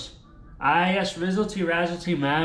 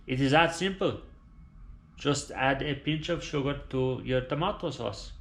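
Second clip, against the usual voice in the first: dying Italian father. Acted. Dying father telling son the family secret, grave and hushed.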